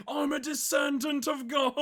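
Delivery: high, loud mock proclamation; imitated shouting. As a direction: yell it like the raving man in the video. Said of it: "I like to think he sounds like the guy".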